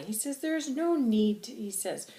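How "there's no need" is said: slow, high, loud insistence; angry, passionate. Acted. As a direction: stretch it out with indignation. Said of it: "I'm very angry and I'm very passionate".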